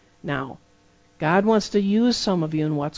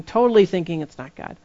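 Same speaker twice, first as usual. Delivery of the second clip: ordinary talk, nothing marked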